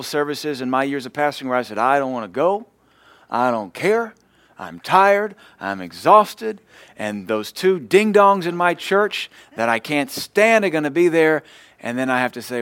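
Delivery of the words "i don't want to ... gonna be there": mock grumbling pastor. Pastor's retold grumbling before church.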